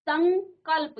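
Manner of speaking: संकल्प with a held ng before क; teacher stressing the ng in संकल्प; velar nasal demonstration. Shown as a demonstration. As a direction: sound out संकल्प as सङ्-कल्प. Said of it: "अंग का उच्चारण आ रहा है".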